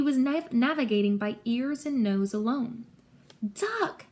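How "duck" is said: high, urgent call; pitched-up yell at moderate volume; yelled warning. A narrator's reading. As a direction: cry out to warn a friend. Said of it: "he yelled again".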